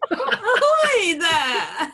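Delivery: very slow, laughing mock hail; a drawn-out hammed-up ahoy; imitating the call. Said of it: "I just love that image".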